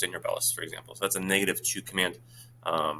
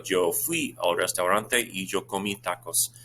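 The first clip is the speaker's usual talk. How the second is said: slow model answer; slower than usual. Shown as a demonstration.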